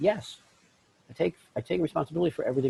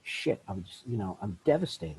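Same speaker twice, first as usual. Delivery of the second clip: mock sadness; 4 semitones lower, 7 dB quieter than usual. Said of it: "First element of grief is sadness".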